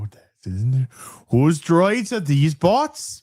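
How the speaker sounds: attempted Welsh accent; put-on Welsh accent. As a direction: try a sing-song Welsh accent on request. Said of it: "In your best Welsh, Welsh accent".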